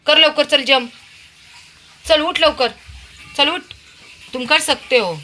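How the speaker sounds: high, loud cheering him on to jump; encouraging calls. Real, not acted. Urging Veer to jump down to Papa, loud high cheering. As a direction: cheer him on like a coach at the edge. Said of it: "त्याला जरा असं प्रोत्साहन दिलं ना मग तो येतो".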